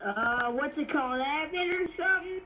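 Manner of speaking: put-on lightly drawled country boy accent. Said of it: "you sound like a country boy".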